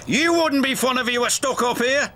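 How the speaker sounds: snapped. A narrator's reading. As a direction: fire the retort straight back. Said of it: "snapped Cranky".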